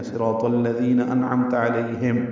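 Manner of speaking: slow, deliberate صراط الذین انعمت علیہم; careful recitation. Shown as a demonstration. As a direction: read it slowly with clear ازہار on نون and میم. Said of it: "یہاں پہ آپ وقف کر سکتے ہیں".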